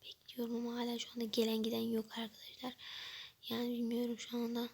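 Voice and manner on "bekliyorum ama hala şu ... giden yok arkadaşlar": bored whisper. Real, not acted. Vlogger whispering to viewers while still waiting.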